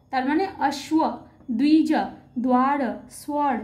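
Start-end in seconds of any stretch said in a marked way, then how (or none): 0.7-0.9 অশ্ব with the v sounded as w; Sanskrit pronunciation. Shown as a demonstration. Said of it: "এইভাবে কিন্তু প্রত্যেকটি বর্ণের উচ্চারণ". 1.6-3.5 দ্বিজ, দ্বার, স্বর with a w after the first consonant; Sanskrit pronunciation. Shown as a demonstration. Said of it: "এইভাবে কিন্তু প্রত্যেকটি বর্ণের উচ্চারণ".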